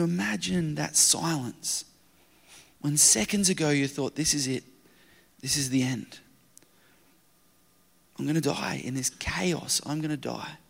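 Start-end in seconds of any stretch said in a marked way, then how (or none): 4.2-10.6 much softer, resigned whisper of doom; hushed dread. Acted. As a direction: murmur it as if all is lost. Recalled terror, whispered.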